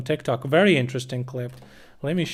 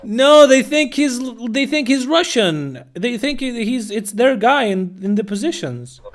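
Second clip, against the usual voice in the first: still giggling; 9 semitones higher, 3 dB louder than usual. Real, not acted. Streamer explains the clip to chat, still laughing. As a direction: explain through leftover laughter.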